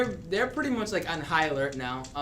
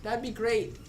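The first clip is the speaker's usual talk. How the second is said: small troll voice; 4 semitones higher, 4 dB quieter than usual. Acted. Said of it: "and he goes".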